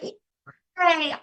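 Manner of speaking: high, arms-up yay; excited cheer. Shown as a demonstration. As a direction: cheer like you just got the best news ever. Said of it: "You're so excited".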